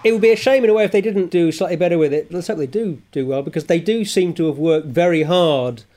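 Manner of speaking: hoarse, croaky throat. Real, not acted. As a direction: speak with a frog in the throat. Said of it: "the croaky voice of the speaker".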